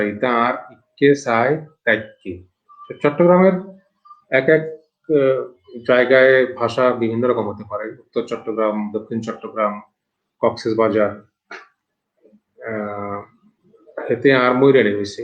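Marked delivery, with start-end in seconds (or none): 0.0-2.4 slow Chittagonian dialect reading; Chittagong dialect. Shown as a demonstration. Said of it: "এটা চট্টগ্রামের ভাষা". 14.1-15.2 plain voice, Noakhali regional speech; Noakhali dialect. Shown as a demonstration. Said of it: "এটা নোয়াখালীর ভাষা".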